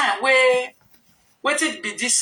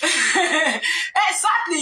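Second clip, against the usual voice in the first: laughing; 6 semitones higher, much slower than usual. Real, not acted. Laughing agreement.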